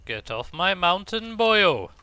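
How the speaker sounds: put-on loud, high Welsh accent. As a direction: bellow it like a Welsh farmer. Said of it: "world-class Welsh accent".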